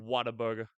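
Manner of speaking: "Whataburger" as /wɑtə˞bə˞ɡə˞/, with an open "Wha"; local pronunciation. Shown as a demonstration. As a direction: teach "Whataburger" with an open "Wha" and r-coloured endings. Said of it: "That's how you say it".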